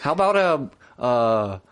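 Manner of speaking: joining the mock Wisconsin server bit; Wisconsin accent. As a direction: offer the lager in a put-on Wisconsin accent. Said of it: "Wisconsin accent".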